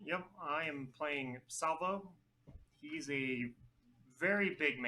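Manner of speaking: put-on a weak stab at a Russian accent on very big man; bad Russian accent. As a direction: fake Russian accent that barely lands. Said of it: "That's the worst Russian accent I've ever heard".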